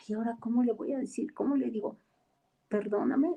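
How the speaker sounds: hurried anxious muttering. Retold or imitated. Anxious inner voice before praying.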